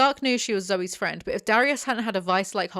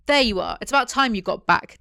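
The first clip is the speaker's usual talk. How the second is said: loud greeting; 3 semitones higher, 7 dB louder than usual. Acted. Dallas pops out of bushes.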